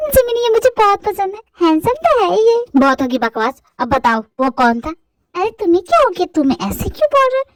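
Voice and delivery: put-on high girlish annoyed voice; exasperated heroine. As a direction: scold him in disbelief. Girl admires, then questions.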